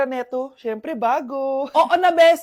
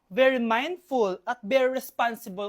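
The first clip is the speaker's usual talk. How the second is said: demure; 3 semitones lower, 5 dB quieter than usual. Acted. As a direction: say it with mock refinement. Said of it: "I'm very demure".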